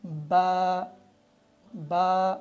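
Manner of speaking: با with lips squeezed tightly shut before release; با with over-tight lips; lips pressed hard. Shown as a demonstration. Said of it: "ہونٹوں کو سختی سے ملایا جاتا ہے".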